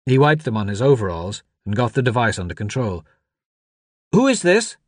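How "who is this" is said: put-on very high boy's question. A narrator's reading. Boy with the device asks the stranger, nervous. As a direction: ask it high and uncertain, like a boy. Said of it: "he asked".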